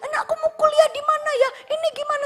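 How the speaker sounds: put-on high-pitched, whiny child voice; child asking mama. Child asking mama about college, high and pleading. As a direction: pipe up high like an anxious kid.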